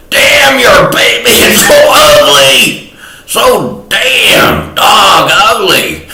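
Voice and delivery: hammed-up high-pitched retelling of an insult; high mock insult. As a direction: squeal the insult at her in a silly high voice. Quoting his own insult to mother.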